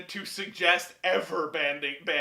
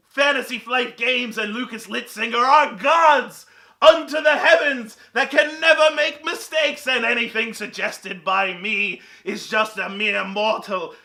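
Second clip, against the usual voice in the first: mock villain rant. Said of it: "This is stupid. I'm gonna stop that".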